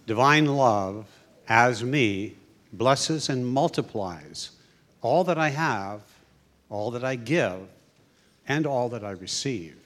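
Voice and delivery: slow, phrase-by-phrase blessing; spoken blessing. Real, not acted. Leader saying the offering blessing, slow measured recitation. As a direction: recite slowly, pausing after each phrase. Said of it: "I will say the blessing".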